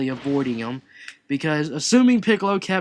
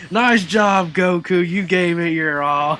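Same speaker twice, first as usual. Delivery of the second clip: Beerus; 3 semitones higher, 6 dB louder, slower than usual. Retold or imitated. Beerus patting Goku on the chest, falsely cheerful. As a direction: congratulate through a fake smile. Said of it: "puts on a fake smile".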